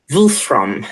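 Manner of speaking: Wolfram said in a German accent. Shown as a demonstration. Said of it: "in a German accent".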